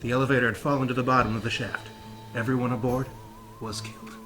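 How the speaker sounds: reading while holding a plank; strained, braced from planking. Real, not acted. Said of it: "let's hold that plank".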